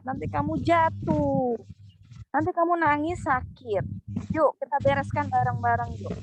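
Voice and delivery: put-on calm, patient explaining to a child; steady firm parent, slowing on the warnings; gentle but firm, explain the consequences. Shown as a demonstration. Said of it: "Itu adalah tegas".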